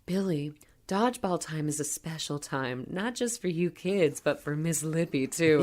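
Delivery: lightly voiced creepy teacher, softened; Miss Lippy. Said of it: "She's like".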